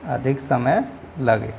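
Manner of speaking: अधिक समय लगे slowed right down, each word weighed; slow emphasis. Shown as a demonstration. Teacher stressing the definition, अधिक समय लगे slow. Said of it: "दीर्घ स्वर से".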